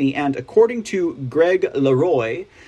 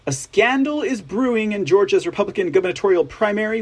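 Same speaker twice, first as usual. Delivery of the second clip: normal talking voice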